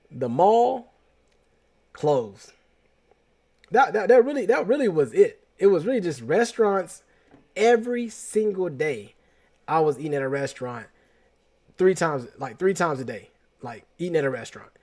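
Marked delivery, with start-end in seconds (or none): 3.7-9.1 laughing it off, a bit higher and louder; chuckling through the admission; amused at himself. Real, not acted. Laughing at own spending.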